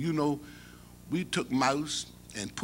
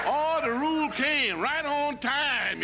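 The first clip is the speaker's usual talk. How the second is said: delighted; 4 dB louder, slower than usual. Real, not acted. Storyteller delighted.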